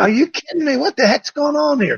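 high, mock-amazed sarcasm; sarcastic. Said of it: "little bit of sarcasm".

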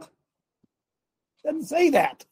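It doesn't say that, drawn out very slowly; slow emphatic denial. Real, not acted. Pastor driving home to the congregation that the verse says no such thing, slowly. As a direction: stretch every word so the flock hears it.

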